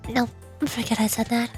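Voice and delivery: lightly voiced, poised president character; composed student president. President checking on the visitor's work, lightly voiced composure.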